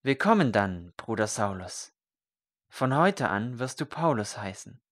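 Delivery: calm, ceremonial welcome; solemn and calm. Acted. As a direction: bestow the new name like a rite. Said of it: "mit seiner ruhigen Stimme sehr feierlich".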